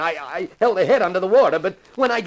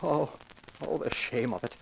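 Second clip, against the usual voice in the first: despairing moan; 5 semitones lower, 12 dB quieter than usual. Acted. Caught accomplice confesses in despair.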